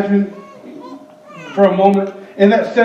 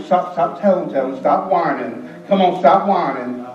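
put-on scolding kids; 4 semitones lower, 4 dB quieter than usual. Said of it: "we say things to little kids".

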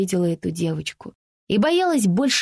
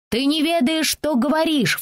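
put-on a higher, indignant child's voice; little girl retorting; 7 semitones higher than usual. Francie answering the girl who teased her, indignant child's voice. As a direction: talk back like an offended little girl. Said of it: "Фрэнси ответила на оскорбление".

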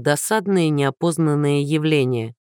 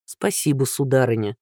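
mock gallant thanks; 4 semitones lower than usual. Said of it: "поклонился Андрей".

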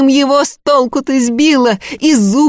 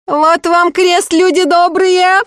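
shouting over; 5 semitones higher than usual. Acted. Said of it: "перекрикивая Агафью".

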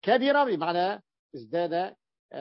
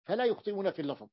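quicker, softer restatement of "فلا يخطئون في اللفظ"; quick softer echo; 2 semitones higher, 3 dB quieter, faster than usual. Shown as a demonstration. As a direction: toss off the repeat lightly. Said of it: "teacher repeats key point". (تكرار سريع وأخفض)

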